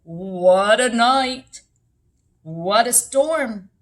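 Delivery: slow, drawn-out loud exclamation as a mole; muttering mole. A narrator's reading. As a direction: mole grumbles loudly and slowly about the weather. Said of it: "Mole mutters".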